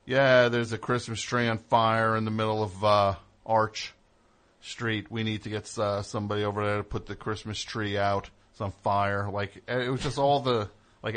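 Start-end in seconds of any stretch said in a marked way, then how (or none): 0.1-9.3 police scanner. Retold or imitated. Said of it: "the police scanner that night".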